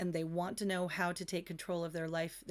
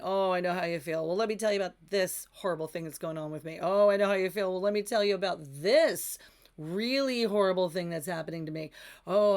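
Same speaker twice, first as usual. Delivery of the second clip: mock one-upmanship, louder and faster with each complaint; hammed-up contest of woes, rising in volume; one-upping complainers; 7 dB louder, faster than usual. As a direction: build from a loud gripe to a near shout. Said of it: "complain about something a little bit bigger".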